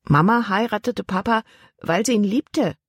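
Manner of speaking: put-on young girl answering her aunt back; curt girl's retort. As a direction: defend her father, a bit brusquely. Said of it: "Libbys Stimme hörte sich schroff an".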